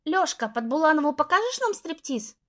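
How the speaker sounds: playful high teasing question. Acted. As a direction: tease him flirtatiously. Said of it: "игриво спросила девушка".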